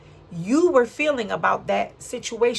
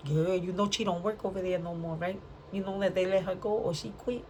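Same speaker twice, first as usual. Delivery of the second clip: gossipy voice; 6 dB quieter than usual. Retold or imitated. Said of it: "I don't know why I'm talking like that".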